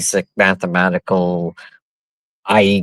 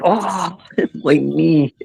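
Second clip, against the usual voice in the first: high mock moan through a laugh; giggly, put-on wail of pain; 7 semitones higher, slower than usual. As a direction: imitate a hurt friend while laughing. Mimics a fallen friend hurting.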